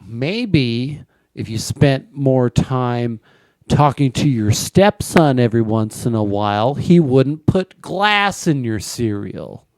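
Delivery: lightly voiced wife scolding her husband; mad wife. Wife scolding husband back from hospital, mad. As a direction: nag him in measured, emphatic bursts. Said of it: "the impression of the wife".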